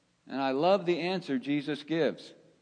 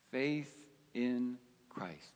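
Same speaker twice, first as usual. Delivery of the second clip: hushed echo; 4 semitones lower, 8 dB quieter, slower than usual. Real, not acted. Hushed repeat of the key phrase.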